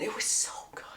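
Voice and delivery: hushed, whispered aside of delight; whispered gushing. Real, not acted. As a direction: gush about it under your breath. Gushing over a favourite scene.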